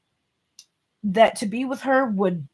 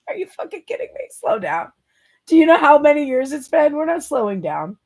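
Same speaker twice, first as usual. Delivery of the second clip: much higher and fast, then punchy; mock outraged disbelief; 6 semitones higher, 4 dB louder than usual. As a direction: squeal it in mock disbelief, then lay down the law. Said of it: "Divine Feminine is like".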